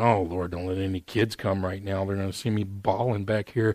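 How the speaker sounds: retold tearful prayer. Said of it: "I was in tears".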